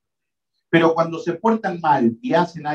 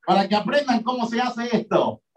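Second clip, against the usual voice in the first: higher, self-praising show-off; boastful mock Peter; 6 semitones higher than usual. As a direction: brag to the men in the boat. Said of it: "Quizás dijo".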